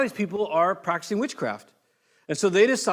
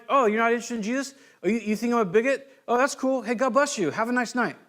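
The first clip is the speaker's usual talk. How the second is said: light, easygoing mock brush-off, a bit higher; breezy friendly; 5 semitones higher than usual. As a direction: shrug it off kindly and move on. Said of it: "just being like".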